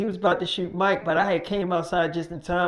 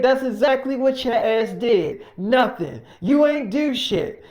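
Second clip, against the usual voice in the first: loud, higher insult; angry yelling; 4 semitones higher, 4 dB louder, slower than usual. Retold or imitated. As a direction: tear into him. Acted quarrel, Mike scolding.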